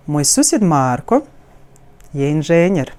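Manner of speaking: "Moj susjed Marko je inženjer" slowed, melodic, with a pause after "Marko"; connected wave. Shown as a demonstration. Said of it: "all the words in this sentence are somehow connected".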